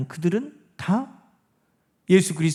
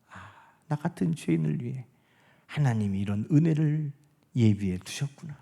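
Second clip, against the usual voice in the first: softer, lower voice of grateful confession; humble confession; 6 semitones lower, 7 dB quieter than usual. Acted. Preacher voicing a sinner saved by grace, quiet humble confession. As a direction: drop into a hushed, humbled admission. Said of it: "우리도 그렇게 고백하는 거예요".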